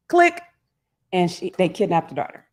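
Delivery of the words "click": imitated phone click.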